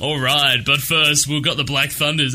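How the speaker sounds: FM radio DJ. Retold or imitated. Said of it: "the guy's like".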